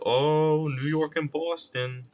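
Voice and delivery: high, hammed-up rivalry chant; mock the fuss in a high voice; exaggerated high jeering; mocking whine. Mocks the rivalry.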